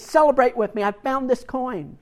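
joyful call. Retold or imitated. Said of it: "calls all of the neighbors and says".

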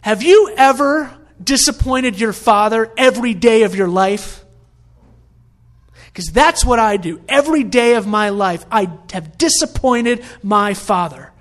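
loud, heated imitated outburst; retold snapping. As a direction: act out a son finally losing it. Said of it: "eventually the son snaps".

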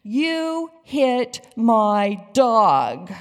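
loud, slow, furious shout; angry yell. A narrator's reading. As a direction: yell it at the driver who hit your dog. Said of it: "Will jumped out of his car yelling".

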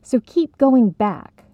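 slow, pressing emphasis; emphatic urging. Acted. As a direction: push them to keep going. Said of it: "reminded quickly".

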